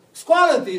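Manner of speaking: loud, high call to rise; loud command. Retold or imitated. Preacher voicing Jesus calling believers to rise, loud. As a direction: ring it out like a wake-up call. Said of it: "să auzim glasul".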